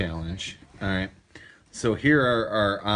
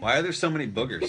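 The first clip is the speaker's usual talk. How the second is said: laughing; 2 semitones higher than usual. Real, not acted. Laughing at booger beans.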